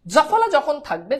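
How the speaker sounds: slow, spelled-out teaching repeat; slow emphatic repeat. Shown as a demonstration. Teacher repeats the rule slowly for students, slow emphatic. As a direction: lay each word down slowly for the class. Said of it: "আবার বলছি".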